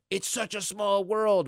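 high, slow, wide-eyed wonder; mock marvelling. Michigan traveller meeting someone from home, slow and high with wonder. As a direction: linger in awe of the coincidence.

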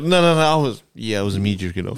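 laughing mock confession. Mocking friend's imagined confession.

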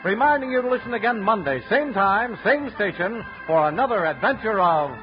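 booming radio sign-off; old radio announcer. Acted. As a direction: announce it like a fifties radio host. Closing announcer read.

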